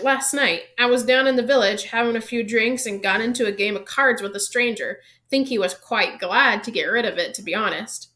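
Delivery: a hint of Hagrid, loud and chatty; lightly voiced Hagrid. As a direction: lightly play a gamekeeper telling his tale. Voices Hagrid telling of card game.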